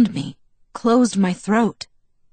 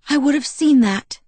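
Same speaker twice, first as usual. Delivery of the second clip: indignant; 7 semitones higher, 3 dB louder than usual. A narrator's reading. Alice repeats defence.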